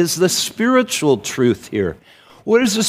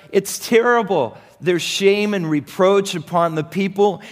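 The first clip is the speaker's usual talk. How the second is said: raised, lamenting report of bad news; a hint of a grieving brother delivering bad news; distressed brother; 3 semitones higher than usual. Brother reports Jerusalem's ruin.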